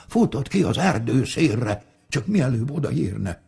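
ordinary delivery

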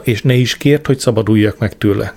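ordinary delivery

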